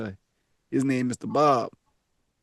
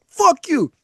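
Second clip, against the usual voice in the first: retold angry curse; 13 semitones higher than usual. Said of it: "Like, I was mad".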